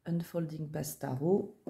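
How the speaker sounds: English title in a French accent; softly spoken French-accented English. Real, not acted. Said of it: "avec mon magnifique accent anglais".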